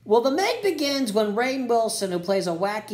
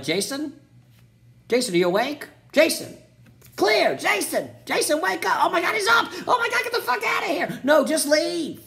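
building panic; 8 semitones higher than usual. Retold or imitated. Teens finding Jason awake, building from timid calls into screaming panic.

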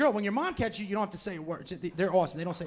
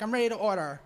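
sing-song ordering. Retold or imitated. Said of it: "they sing when they order".

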